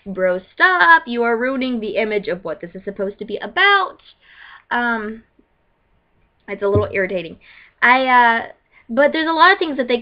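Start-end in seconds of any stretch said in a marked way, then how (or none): 0.0-4.0 mock exasperated plea; hammed-up fed-up protest; irritated. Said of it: "really irritate me".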